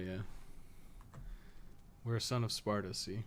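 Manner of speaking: ordinary talk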